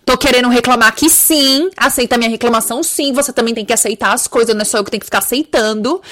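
queixa rápida e fingida ao universo; reclamação brincalhona. Pretend. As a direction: reclame como quem faz birra de brincadeira. (birra de brincadeira, falada rápido)

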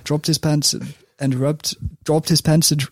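a tentative try at a Danish accent. Shown as a demonstration. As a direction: test out an English line with a Danish accent. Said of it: "in a Danish accent".

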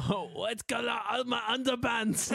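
hammy fake French accent, slow; bad French accent. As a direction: mangle it in a cartoon French accent. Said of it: "That was a really bad French accent".

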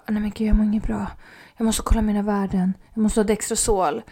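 fast, breathy panicked whisper; rushed frightened whisper; hurried whisper. Retold or imitated. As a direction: whisper it fast like you feel faint. Retold dizzy low-blood-sugar moment.

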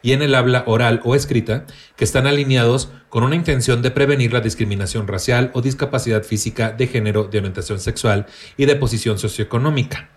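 even, measured read-aloud of a definition. Acted. Host reads a written definition to the co-hosts, reading aloud. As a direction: read it out like a reference entry.

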